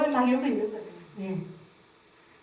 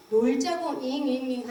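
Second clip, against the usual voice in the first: put-on whiny baby; slower than usual. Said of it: "하는 건데".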